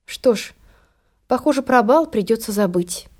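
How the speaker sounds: soft, sad and resigned. Acted. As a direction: sigh it out, downhearted. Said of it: "загрустила Золушка".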